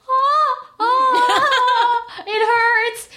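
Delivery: high laughing yelp of pain. Retold or imitated. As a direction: squeal "it hurts" while laughing. Needle flicked on her hand.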